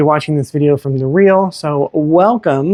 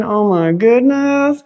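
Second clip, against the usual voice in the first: delighted gasp; 7 semitones higher, slower than usual. Real, not acted. Admiring kitchen on home tour.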